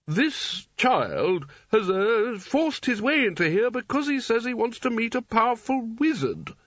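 disdainful wizard looking down his nose; disapproving. Acted. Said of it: "said Spelter disapprovingly".

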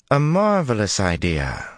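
slow, cold and high. A narrator's reading. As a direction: ice in every word. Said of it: "long and cold as her voice".

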